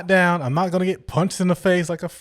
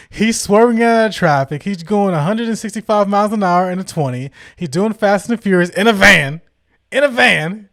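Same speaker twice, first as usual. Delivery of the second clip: tag; 3 semitones higher, 4 dB louder than usual. Real, not acted. Recounting the reckless drive, appalled.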